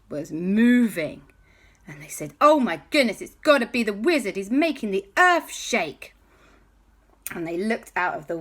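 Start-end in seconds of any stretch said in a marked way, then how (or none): 2.4-6.2 panicked. Acted. Passengers panic at shaking.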